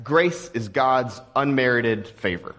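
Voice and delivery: slow, weighty definition, each word set apart. Shown as a demonstration. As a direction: lay the definition down slowly. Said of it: "That's our operational definition".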